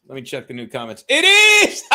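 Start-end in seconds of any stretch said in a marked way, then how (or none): 1.1-2.0 high, loud shout of delight breaking into a laugh. Real, not acted. Thrilled to learn the caller is Moon Cricket, shouting and laughing. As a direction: burst out laughing with joy at the news.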